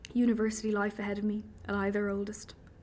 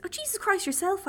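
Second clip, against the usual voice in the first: high, loud indignant snap back; indignant outburst; 13 semitones higher, 4 dB louder than usual. Acted. Captive woman snapping back at her kidnapper, indignant and loud. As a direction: throw his curse right back at him, loud and high.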